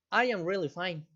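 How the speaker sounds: a mild, sighing, slightly troubled tone. Shown as a demonstration. Teacher demonstrating a sighing, mildly afflicted answer. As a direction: let a little weariness show under the words. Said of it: "¿Sí percibieron en qué tono di las respuestas?".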